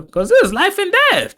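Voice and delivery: high laughing squeal. Real, not acted. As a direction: laugh through the line. Joking reaction with laugh.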